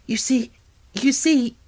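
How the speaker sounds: high, breathless hurry; words tumbling out of breath; panting. A narrator's reading. Mary rushing to explain the secret, breathless. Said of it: "she panted".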